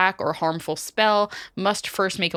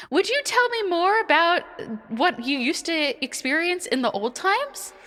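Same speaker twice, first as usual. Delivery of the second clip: much higher, eager polite question; high curious voice; 10 semitones higher than usual. Acted. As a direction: play a sweet, wide-eyed asker. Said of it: "Cammy goes".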